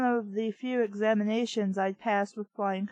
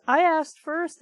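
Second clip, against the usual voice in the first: mock quote; 4 semitones higher, 5 dB louder than usual. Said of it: "what's this".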